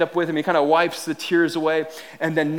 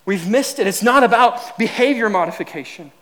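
raised pitch, key words stretched; emphatic preaching; 6 semitones higher, 4 dB louder than usual. Real, not acted. Telling the church they missed it, emphatic preaching.

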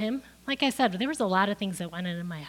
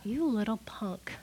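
a hissed inner insult; whispered thought; 7 dB quieter than usual. Retold or imitated. Boy in class silently cursing the kid in a whisper. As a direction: whisper the insult under your breath.

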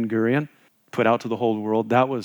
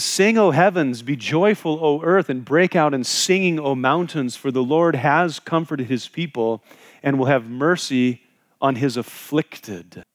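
fervent scripture reading; 3 semitones higher than usual. Acted. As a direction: proclaim it like a psalm of joy. Reads scripture aloud with fervor.

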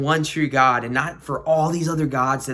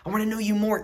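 higher, earnest appeal; mild cry of longing, pitched up; 5 semitones higher, faster than usual. Acted. The Lord cries out to the listener, earnestly longing. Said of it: "what the Lord is crying out to you".

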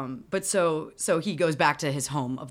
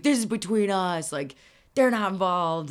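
mildly raised retold argument; a touch of acted anger; yelling; 2 semitones higher, 4 dB louder than usual. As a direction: press the point in a mock rant. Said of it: "him, like, yelling at her immediately".

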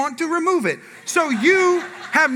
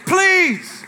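dad daring a cry; 4 semitones higher, 4 dB louder, much slower than usual. Retold or imitated. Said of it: "Dad's like".

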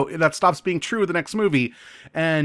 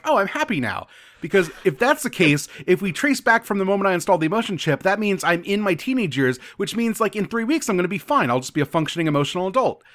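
lightly acted sudden cheer, higher pitched; perked up; 4 semitones higher than usual. Android tells his friend he's happy now, playfully perked up. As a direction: imitate someone abruptly chipper and reasoning it out. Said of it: "immediately perks up".

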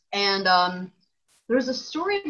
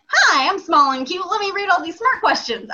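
mock cutesy high voice, louder; cutesy small voice; 8 semitones higher, 6 dB louder than usual. To friends, mocking herself as a cute host, high cutesy voice. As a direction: play small and cute, reading questions. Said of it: "and I'm just like".

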